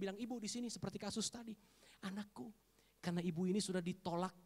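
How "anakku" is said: soft, gentle acted address; tender address. Jesus addressing the rejected woman as his child, tender. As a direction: say it softly, like a parent.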